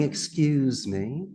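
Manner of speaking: stretched, deliberate "Excuse me"; slow, drawn-out excuse me. Shown as a demonstration. Coach showing the phrase to avoid, said slowly. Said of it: "instead of saying".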